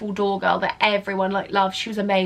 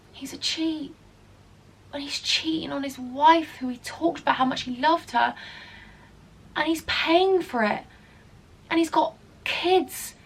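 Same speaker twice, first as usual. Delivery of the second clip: mildly pained, higher voice; sad dismay; 5 semitones higher than usual. Retold or imitated. Doorwoman realising the family man cheats, mildly heartbroken. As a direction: recount each betrayal with hurt disbelief. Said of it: "I was so sad about it".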